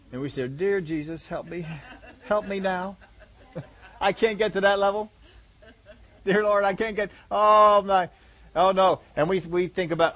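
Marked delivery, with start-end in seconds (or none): 0.5-9.0 half-laughing desperate plea; joking plea to Jesus, laughing; laughing mock prayer. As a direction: pray for help while cracking up.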